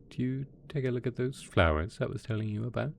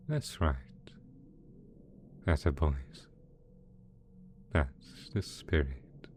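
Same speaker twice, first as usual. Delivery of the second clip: gentle coaxing; 2 semitones lower than usual. Acted. Villain coaxing two pet dragons to eat, gently soothing.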